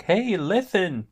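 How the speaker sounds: high slow nagging game sidekick; annoying sidekick voice. Retold or imitated. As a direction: chirp it like a pestering fairy. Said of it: "video game side character who's like".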